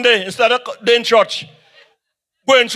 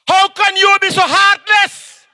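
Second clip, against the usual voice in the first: heartless accusation; 6 semitones higher, slower than usual. Acted. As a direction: hurl it at him like a charge. Political rally, accusing opponent.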